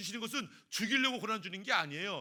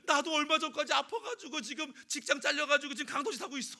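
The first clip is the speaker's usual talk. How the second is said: chuckling confession, higher; laughing robber; 9 semitones higher, 4 dB louder than usual. Acted. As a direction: laugh while the robber explains himself. Robber explains his firing.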